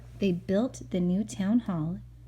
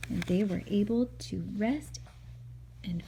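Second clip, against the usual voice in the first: soft ending; 6 dB quieter than usual. A narrator's reading. Gentle story ending.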